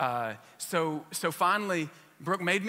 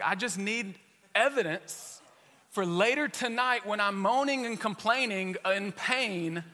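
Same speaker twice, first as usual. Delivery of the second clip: laughing; 6 semitones higher, 5 dB louder than usual. Retold or imitated. Joking about showing wife evidence.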